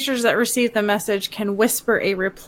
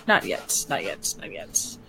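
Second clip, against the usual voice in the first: whispering; 7 semitones lower, 7 dB quieter than usual. Acted. Whispering to self, holding spells.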